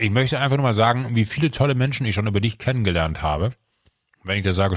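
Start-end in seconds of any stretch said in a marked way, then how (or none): 0.0-3.5 talking with a mouthful of bread; mouth full. Real, not acted. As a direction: speak through a bite of bread. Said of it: "spucke ich das halbe Brot aufs Mikro".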